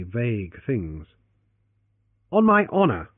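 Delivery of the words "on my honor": grave. Acted. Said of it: "he said gravely".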